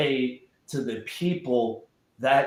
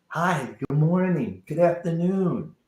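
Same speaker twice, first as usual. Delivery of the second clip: friendly greeting; 3 semitones higher than usual. Retold or imitated. Imitates friendly greetings in Mexico.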